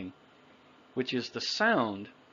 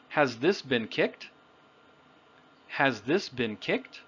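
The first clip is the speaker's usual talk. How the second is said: "Has this been kicked" rising at the end; "this" prominent, "kicked" rising; natural question intonation. Shown as a demonstration. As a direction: let "kicked" lift into a question. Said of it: "but with intonation, the rhythm of the language".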